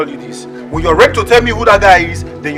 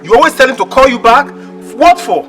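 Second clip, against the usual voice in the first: raised, higher-pitched challenge; accusing; 4 semitones higher, 4 dB louder than usual. Acted. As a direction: demand an explanation from her. Boyfriend accuses girlfriend.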